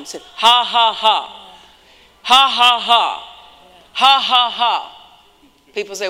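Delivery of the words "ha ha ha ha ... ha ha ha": loud, deliberate mock ha-ha-ha; put-on laugh. Preacher retelling a laughter he did not feel like, forced laugh. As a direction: force out a fake laugh in even bursts. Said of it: "I put it on".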